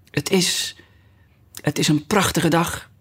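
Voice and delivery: hesitant, half-whispered small talk; timid voice. A narrator's reading. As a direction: begin shyly, faltering at first. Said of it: "zei een bedeesde stem naast haar". (bedeesd en aarzelend)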